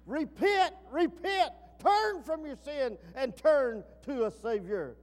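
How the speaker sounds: loud, high prophet's call to repent; a loud, pleading call to turn from sin; crying out. Acted. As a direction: cry it out like John the Baptist in the wilderness. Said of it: "And he cried out".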